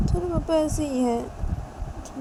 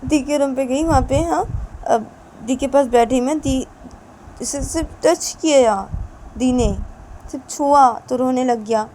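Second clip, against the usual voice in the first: louder, higher, heated nagging complaint; loud complaining rant; 6 semitones higher, 8 dB louder than usual. Acted. Wife rants loudly to husband about the crying baby. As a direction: list every grievance in a heated rush.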